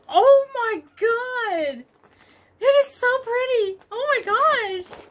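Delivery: drawn-out, high squeal of delight; high excited gush. Real, not acted. Vlogger seeing her new yarn, high excited gush. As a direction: stretch each word in awe, pitched high. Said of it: "My voice goes really high when I'm excited".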